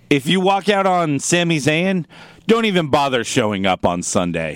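imitated ultimatum. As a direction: deliver it as a pointed warning. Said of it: "the way she said it, though, delivered is like".

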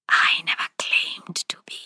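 cold unvoiced whisper; eerie whisper. A narrator's reading. Spirit taunting the widow in a whisper. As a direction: breathe it like a taunting ghost.

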